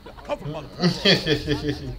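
loud, slow drawn-out mockery; hammed-up copy, dragged out and loud; exaggerated cartoon intonation. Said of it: "Why are you talking like that".

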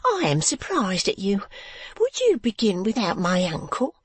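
high, affronted lady's voice; a genteel wife taking offence; indignant wife. A narrator's reading. Wife rebukes her husband.

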